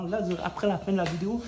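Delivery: bragging and amped about push-ups; pumped up. Real, not acted. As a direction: rush it out, hyped about the workout. Hypes his push-up plans.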